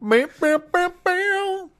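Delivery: very high meowing; cat meowing. Pretend. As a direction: meow like a cat. Cat noises sung.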